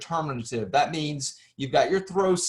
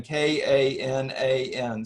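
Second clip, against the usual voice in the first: spelled out slowly; slower than usual. Shown as a demonstration. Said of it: "So you see the repetition".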